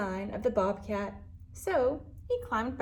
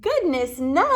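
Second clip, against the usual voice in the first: chattering raccoon; 3 semitones higher, 6 dB louder than usual. Acted. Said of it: "chattered the raccoon".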